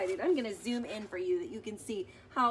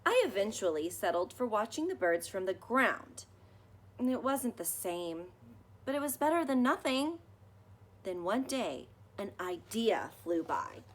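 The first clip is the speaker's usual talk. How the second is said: put-on gentle read-aloud for children, measured pace; story narration; 3 dB louder than usual. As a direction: read it like a bedtime picture book. Reading picture book aloud.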